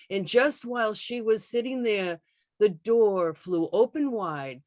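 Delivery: put-on measured recital of an old comic ballad; poem reading. Host reads a 1915 baseball poem to the Zoom audience, recital voice. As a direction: recite it like a parlor ballad, steady and a bit slow.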